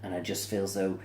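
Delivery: talking through a yawn. Real, not acted. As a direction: yawn while you speak. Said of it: "You have to excuse me for yawning".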